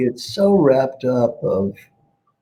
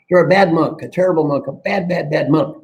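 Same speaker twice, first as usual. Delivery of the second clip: hammed-up scolding of a bad monk; mock angry scolding; 4 semitones higher than usual. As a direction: scold him like a cross schoolteacher. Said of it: "His friend is angry".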